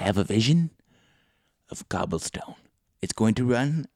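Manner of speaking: lightly voiced mystical wizard. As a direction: intone it like a seer announcing a vision. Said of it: "some kind of, uh, wizard".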